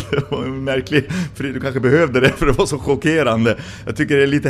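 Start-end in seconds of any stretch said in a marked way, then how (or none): 0.0-0.1 high, loud burst into laughter; delighted astonishment breaking into a laugh; amazed wow. Real, not acted. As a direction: gasp with wonder and laugh it off. Preacher marvels at the resurrection.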